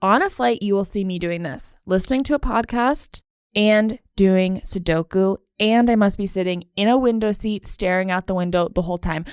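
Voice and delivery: ordinary talk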